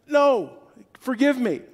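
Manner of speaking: high pleading voice of a debtor; begging servant. Retold or imitated.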